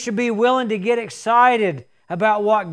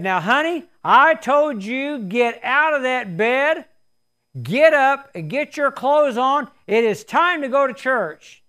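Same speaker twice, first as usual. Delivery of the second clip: exasperated wife; 3 semitones higher than usual. Retold or imitated. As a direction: lose patience with a sleepy husband. Wife scolds husband second time.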